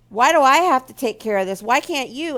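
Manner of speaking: mock angry spouse. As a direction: snap it back like a defensive husband. Spouse deflecting guilt into anger.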